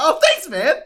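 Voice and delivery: high, loud, laughing through the words; amused disbelief, laughing out loud; laughing at the kid's praise. Retold or imitated. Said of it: "I was like".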